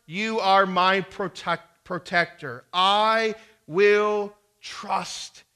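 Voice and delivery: loud, slow cries of Lord, drawn out; slow pleading prayer, very slow on I will trust; crying out to God. Acted. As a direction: cry out to the Lord like David in the psalm. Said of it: "David cries out in this wonderful psalm".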